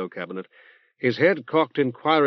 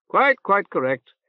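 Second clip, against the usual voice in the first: reverberant nasal voice; 8 semitones higher, 4 dB louder than usual. Acted. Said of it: "in a reverberant nasal voice".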